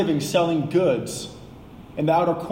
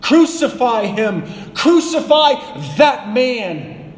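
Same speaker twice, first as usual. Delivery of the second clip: slow, loud cries climbing higher to the last; each cry bigger, like a mob losing control; building mob shout; 4 semitones higher, 5 dB louder, slower than usual. Retold or imitated. Preacher voicing the crowd's intensifying cry to Pilate, building shout. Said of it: "And their shouts intensified".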